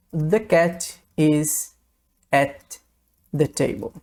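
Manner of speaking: the cat is at the table with at and the joined, one consonant dropped; slow and linked, "at" sliding straight into "the". Shown as a demonstration. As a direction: say "at the table" as one run, the t of "at" swallowed. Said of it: "uma dica de pronúncia aqui".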